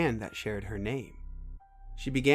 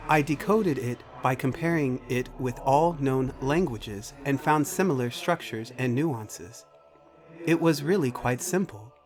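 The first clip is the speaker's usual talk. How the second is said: measured, precise machine voice; computer character, matter-of-fact; 3 semitones higher, 4 dB louder than usual. Acted. Computer tells Macy what it cannot access, formal machine voice. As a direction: state it formally, like an AI reporting limits.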